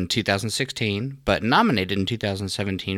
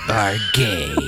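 squeaky voice. Acted. Parody of trailer voice.

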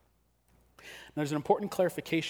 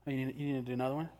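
cocky taunt; faster than usual. Retold or imitated. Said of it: "you take it in the face and you're like".

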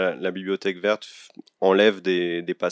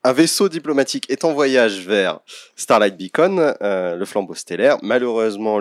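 movie trailer voice; 3 semitones higher, 7 dB louder than usual. Pretend. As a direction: announce it like a blockbuster trailer. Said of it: "t'as la voix bande-annonce et tout".

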